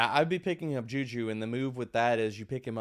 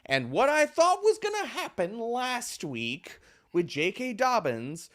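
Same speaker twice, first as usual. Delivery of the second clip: laughing; 9 semitones higher, slower than usual. Real, not acted. Laughing about a bad call.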